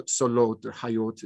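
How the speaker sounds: "solot" and "hayot" with a long o vowel; reconstructed Hijazi pronunciation. Shown as a demonstration. Asking whether old Hijazi sounded so, reconstructed pronunciation. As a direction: say "solot", "hayot" slowly, o in place of a. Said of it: "would have been pronounced something like".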